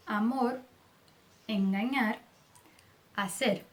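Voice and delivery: amor, enganar, hacer with a light tapped final R. Shown as a demonstration. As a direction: end amor, enganar and hacer on a soft flick of R. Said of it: "O som final também é leve". (R final leve em amor, enganar, hacer)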